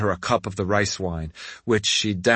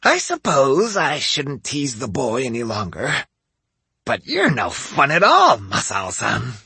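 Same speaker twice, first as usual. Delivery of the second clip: pouting; 4 semitones higher than usual. A narrator's reading. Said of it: "Hansho pouted".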